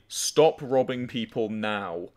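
slow, deliberate quoted command; plain-spoken order. Retold or imitated. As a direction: read the demand out slowly and plainly. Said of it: "just very plainly said to me".

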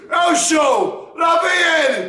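excited cheering. Real, not acted. Cheering on own play.

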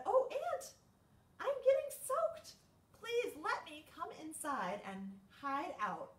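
high, loud pleading little butterfly. Acted. Butterfly begs ant to let her shelter, high and pleading. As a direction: beg like a soaked tiny creature. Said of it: "and said".

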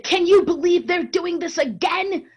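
high, loud outraged disbelief; indignant mother. Retold or imitated. Mother on the phone to her daughter, high and loud in outraged disbelief. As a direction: vent about the news to your daughter.

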